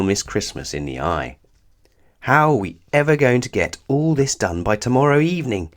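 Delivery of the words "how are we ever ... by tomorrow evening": angrily. Acted. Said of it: "she continued angrily".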